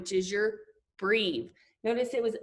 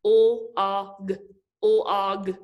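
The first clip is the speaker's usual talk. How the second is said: quicker blending; 5 dB louder than usual. Shown as a demonstration. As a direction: sound out O, ah, g quicker so the sounds run together. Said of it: "say 'em a little quicker".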